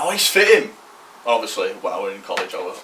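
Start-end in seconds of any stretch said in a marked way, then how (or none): 0.0-0.7 higher, louder imitation of a catcall; mock shouting over. Girls shouting over to the lads, mock shout. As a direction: call it out like a girl across the canteen. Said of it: "like, shouting over to all lads".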